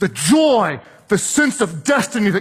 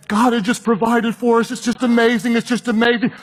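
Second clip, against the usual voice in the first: slightly higher, overwhelmed gratitude; retold emotion; 4 semitones higher than usual. Woman phoning her husband about the free repair, lightly emotional. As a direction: lightly act out an emotional thank-you. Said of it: "through this emotion, she's saying".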